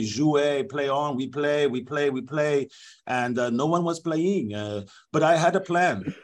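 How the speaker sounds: lightly put-on French referee explaining himself; a hint of a French accent, rambling excuses; the speaker voicing a French referee in a French accent; mock French accent. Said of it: "this is my actual interview".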